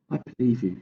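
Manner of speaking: gentle and sincere, no rush; a girl quietly reassuring the giant; softly. Acted. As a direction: say it kindly to mend things. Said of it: "she said softly".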